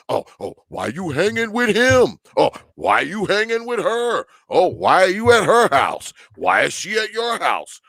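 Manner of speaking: high, petty schoolkid mimicry; mocking teenage whine. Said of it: "fourteen-year-old granddaughter talks like this".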